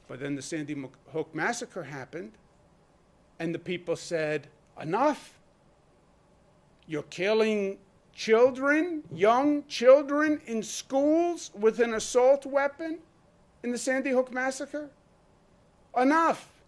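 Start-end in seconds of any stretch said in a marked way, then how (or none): 4.8-16.6 raised, slow, emphatic indignation; outraged protest. Retold or imitated. Governor voicing the public's demand after a massacre, outraged. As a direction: voice the crowd's incredulous outrage, pitch climbing.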